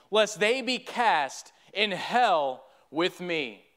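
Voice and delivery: measured verse reading with slowed line endings; poem recitation. A narrator's reading. Lost friend pleads from hell to a neighbor, solemn poem recitation. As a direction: recite it as an earnest plea, line by line.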